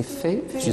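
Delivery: fœtus said as "fé-tus", with an open è sound; correct pronunciation. Shown as a demonstration. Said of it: "C'est fœtus".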